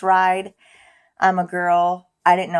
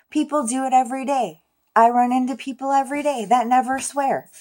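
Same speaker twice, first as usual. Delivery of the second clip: exasperated self-scolding, pitched higher; yelling at myself; 4 semitones higher than usual. Retold or imitated. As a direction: scold yourself for swearing, half laughing. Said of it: "as I'm yelling at myself".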